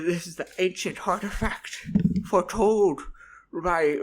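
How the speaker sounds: loud, high overjoyed goblin; frantic high excited goblin; excited shout. Acted. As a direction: burst out in giddy disbelief.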